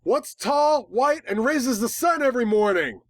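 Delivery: high, bouncy riddle voice; cheering up a frightened filly; playful riddle. A narrator's reading. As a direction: tease a scared kid with a riddle. Teasing riddle to comfort filly.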